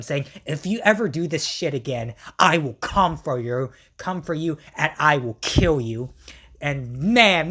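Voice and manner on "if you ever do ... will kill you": lower-pitched mock threat as it goes; imitated villain's vow, sinking in pitch; threatening. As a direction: warn them with acted menace. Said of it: "he threatens them".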